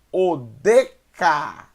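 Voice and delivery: Odeca with a closed E, syllables spaced out; Odeca, loud syllables, closed middle vowel; misread closed E. Shown as a demonstration. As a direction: say Odeca slowly and loudly with E as 'ay'. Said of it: "eu li errado".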